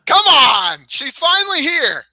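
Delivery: high, slow call upstairs to a shy wife; coaxing call. Real, not acted. Coaxing wife onto podcast.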